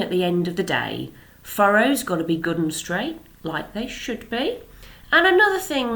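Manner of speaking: lightly voiced country farmer laying out terms; steady and sure, a hint of a proud farmer; lightly voiced father announcing the bet to the crowd. Father sets the bet aloud.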